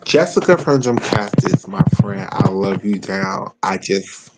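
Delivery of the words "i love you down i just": slow, soft and low; stoner. Real, not acted. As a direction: mellow stoned murmur. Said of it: "I'm kinda high right now".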